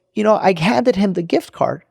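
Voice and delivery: imitated tearful voice. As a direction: lightly play the crying assistant. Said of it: "she's crying, right?".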